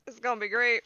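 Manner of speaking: put-on weak New York accent; hint of a New York accent; bad New York accent. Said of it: "You're starting to do the bad New York accent".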